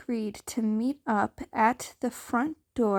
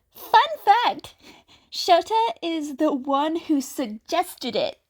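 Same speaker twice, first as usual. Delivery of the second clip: excited announcement; 6 semitones higher, 3 dB louder than usual. Acted. Character voice, excited.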